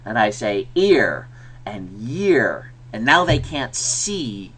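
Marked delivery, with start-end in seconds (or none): 0.7-2.7 slow, muffled "ear and year" behind the hand; hand over mouth. Shown as a demonstration. Teacher hiding her lips to test "ear" and "year", slow. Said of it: "I put my hand over my mouth".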